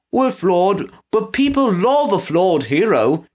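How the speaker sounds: light up at the idea; excitedly. A narrator's reading. Trout to Pickles about redemption, eager. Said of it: "Trout said excitedly".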